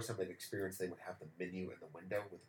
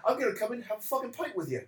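high, loud, laughing boast; laughing local; 9 dB louder than usual. Retold or imitated. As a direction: laugh it out while inviting yourself along. Local decides to drink too.

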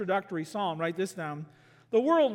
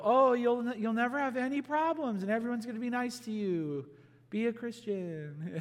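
mock sugary reassurance, higher then fading; preacher lampooning a pie-in-the-sky faith; 4 semitones higher than usual. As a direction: parody a naive promise. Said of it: "pie in the sky".

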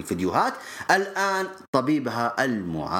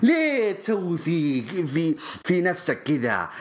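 high, wailing fake sobs; hammed-up fan crying over a loss; mock crying fan; 8 semitones higher than usual. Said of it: "الصياح ذا لا أسمع".

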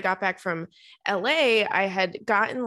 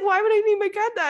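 higher, louder baffled question; baffled owner; 12 semitones higher, 4 dB louder, faster than usual. Retold or imitated. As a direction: ask like a puzzled owner. Owner asks, puzzled.

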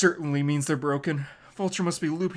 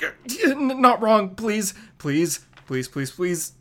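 higher, louder begging that fades out; pleading in a fall; 6 semitones higher, 6 dB louder, slower than usual. Acted. Peter dropping toward the trees, begging it to work. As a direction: beg the air to catch you. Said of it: "And he falls like".

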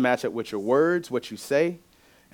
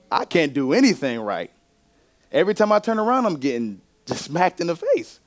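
condemning voice; 4 semitones higher than usual. Retold or imitated. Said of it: "the voice of the enemy says".

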